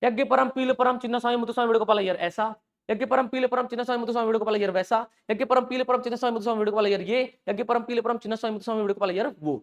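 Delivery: rattling off the hard names over and over; repeating the hard names in a chant-like run; tongue-twister recital. Shown as a demonstration. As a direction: stumble through the long names as a demo. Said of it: "मुझे अगर यज्ञ परम ... चार बातें बोलनी तो मैं प्रयास करता हूँ".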